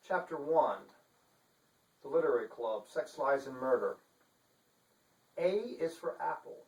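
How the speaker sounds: measured storyteller voice; story narration. Acted. Author reading his novel to viewers, steady storytelling. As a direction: read it like a thriller opening.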